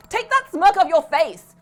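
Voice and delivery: loud, high and slow bellow; slow furious yell; bawled order. A narrator's reading. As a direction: drag out the scolding at full volume. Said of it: "bawled the same thing".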